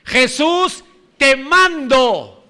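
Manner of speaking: mock order to Jesus; demanding tone, lightly played; commanding Jesus. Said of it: "No se acercan a Jesús para mandarle".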